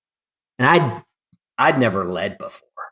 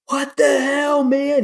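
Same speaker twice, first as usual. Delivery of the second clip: imitated yell; slower than usual. Climbing partner yelling at a novice at the belay, high exasperated shout. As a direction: yell it like a partner who can't believe his eyes. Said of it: "He's, like, yelling at me".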